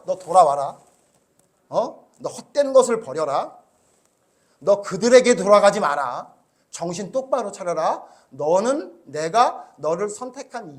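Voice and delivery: firm, loud charge; God's command. Retold or imitated. God commanding Elijah to return, firm. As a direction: call the prophet back to his duty. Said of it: "하나님은 그에게 뭐라 그래요?".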